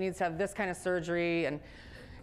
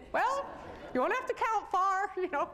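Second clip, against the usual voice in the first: much higher, playful quip; joking anesthesiologist; 12 semitones higher than usual. Retold or imitated. Anesthesiologist teasing the girl, high playful quip. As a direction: land the joke lightly.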